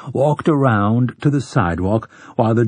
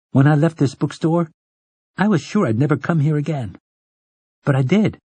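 put-on young Jake; 3 semitones higher than usual.

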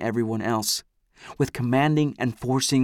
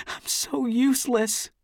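sighing; 12 semitones higher than usual. A narrator's reading. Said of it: "she sighs".

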